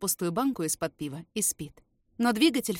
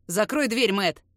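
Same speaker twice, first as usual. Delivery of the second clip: urgent call; 6 dB louder, slower than usual. Acted. Urgent call across the garage.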